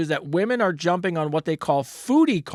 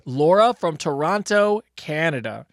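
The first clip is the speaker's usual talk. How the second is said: announcer intro; slower than usual. Acted. Announces listener name.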